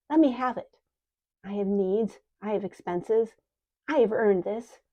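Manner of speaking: insisting loudly. Acted. Old woman insists on reward.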